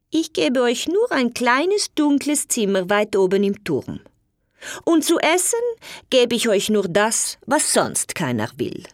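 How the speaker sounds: a spiteful stepwife, pitched high at first; angry. Acted. Alina turning away the knight's parents, spiteful. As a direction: snap it out coldly to the unwanted guests. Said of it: "Sie sagte böse".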